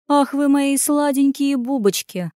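put-on slow, cooing baby talk; kindergarten teacher voice. A narrator's reading. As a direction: coo at the little plants slowly. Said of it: "просюсюкала Аня".

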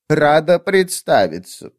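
put-on slow, squeaky little old voice. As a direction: squeak the greeting out slowly. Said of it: "пропищала она".

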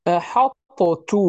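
أحطت drawn out very slowly; slow articulation. Shown as a demonstration. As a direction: dwell on the ending of أحطت. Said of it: "مثال". (نطق أحطت ببطء شديد)

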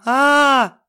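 выше и громче протяжное «а-а-а»; падающий вопль; громкий крик. A narrator's reading. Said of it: "С громким криком". (Сеня падает с табуретки, вопит «а-а-а»)

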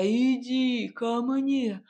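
медленно, томно тянет; зовёт к себе, томно растягивая; томный богатырь. A narrator's reading. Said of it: "томно пробасил Илья". (томный зов богатыря, медленно)

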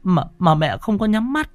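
high, stammering tearful woman; sobbing wife's broken plea; choked sobbing. A narrator's reading. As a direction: stumble through the words, choked with fear and grief. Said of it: "Bà Thu quay lại nức nghẹn".

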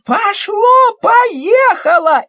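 put-on high, loud girlish yells; excited shouting. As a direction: yell it out with glee. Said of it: "закричала Алёнка".

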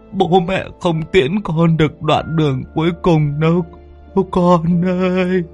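high, slow sung-out mourning cry; keen a father's farewell, drawn out; grieving lament. A narrator's reading. Father laments his son leaving on the hearse, high and slow. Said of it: "ông lẩm bẩm".

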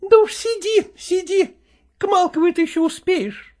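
high, nagging wife's voice, reproaching him; reproachful wife. Acted. Wife reproaching her husband over his new things, high and nagging.

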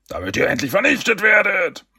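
hoher, verstellter Schurkenschrei; drohender Ausruf. A narrator's reading. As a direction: triumphierend und hoch dazwischenfahren. Schurke platzt drohend dazwischen. (gepresst ausgerufene Vernichtungsdrohung)

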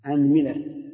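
أنملة as anmila, i on the meem; أنملة: a-nmi-la; fatha then kasra. Shown as a demonstration. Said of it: "اكسره".

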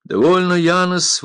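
страстно воскликнуть; passionate exclamation. A narrator's reading. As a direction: cut him off with passion. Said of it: "воскликнул пират страстно".

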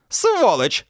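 high, loud shriek. A narrator's reading. Mandy shrieks the insult at the narrator, high and loud. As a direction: screech the insult. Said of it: "взвизгнула она".

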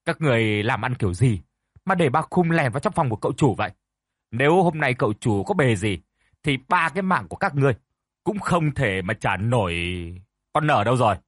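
angry scolding. Acted. Mistress scolds the servants.

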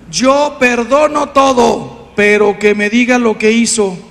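loud, slow, insistent quote; mock demand. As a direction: act out a demanding spouse. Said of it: "Hombres y mujeres decimos".

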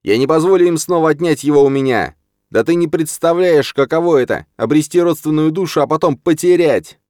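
high, loud, desperate cry; desperate shout. A narrator's reading. Rahim shouting at his brother in despair, high and loud. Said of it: "отчаянно закричал".

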